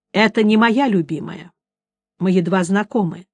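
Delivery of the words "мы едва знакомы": ordinary delivery, nothing marked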